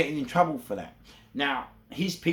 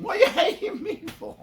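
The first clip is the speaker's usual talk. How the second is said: high mock outcry; 6 dB louder than usual. Repeated taunt refrain.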